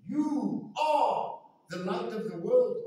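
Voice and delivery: slow, weighty declaration; emphatic exclamation. Retold or imitated. Preacher marvels that Jesus says this to him, emphatic and slow. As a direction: pronounce it firmly, word by word. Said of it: "It was an emphatic exclamation".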